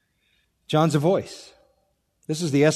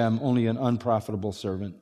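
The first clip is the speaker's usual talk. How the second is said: humble fading; 5 semitones lower, 7 dB quieter than usual. Acted. Humble servant speech, fading.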